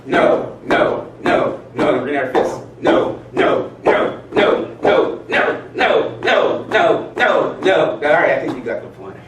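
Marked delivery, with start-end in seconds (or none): 0.1-7.9 louder and louder repeated no; stomping no. Shown as a demonstration. Leading the group in the no exercise, building louder. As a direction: build a defiant chant of no. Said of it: "stomp our foot and say".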